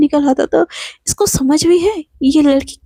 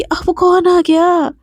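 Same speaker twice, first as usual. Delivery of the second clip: slow annoyed groan; 4 semitones higher, much slower than usual. Acted. Annoyed at knock on door.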